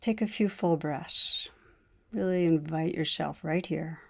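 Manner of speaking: unhurried meditation guide, pausing between phrases; guided meditation. Real, not acted. Teacher leading listeners to notice wanting in the body, guided meditation. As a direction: guide listeners inward calmly, leaving space between phrases.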